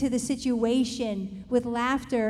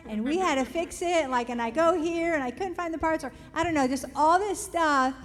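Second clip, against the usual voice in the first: louder, eager rush of news; husband on the phone telling his wife about the burst water line, excited and louder; excited retelling; 4 semitones higher, 5 dB louder than usual. Retold or imitated. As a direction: tumble out the day's disaster with gusto.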